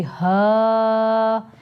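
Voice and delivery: हा breathed from the chest. Shown as a demonstration. Teacher shows the chest हा to students. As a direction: let हा come from the chest. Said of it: "सीने से आवाज़ आती हुई महसूस होगी".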